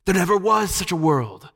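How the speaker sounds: high, gliding croon; lulling witch. A narrator's reading. Witch erasing Jill's memory of her world, crooning. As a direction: spellbind with smooth certainty. Witch lulls the enchanted children.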